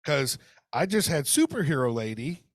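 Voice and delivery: usual speaking voice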